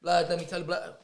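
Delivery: imitated London street accent; Top Boy street accent. Kids who changed accents overnight, mock London street accent. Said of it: "Accents changed overnight".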